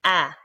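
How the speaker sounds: "A" said with the mouth lifting; showing the fatha movement; a going up. Shown as a demonstration. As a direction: let the mouth rise on "A". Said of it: "my mouth goes up".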